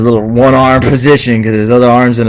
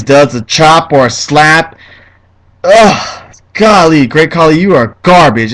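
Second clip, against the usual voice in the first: heated rant; 4 semitones higher than usual. Real, not acted. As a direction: vent real frustration at the wrestler. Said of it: "I'm getting heated".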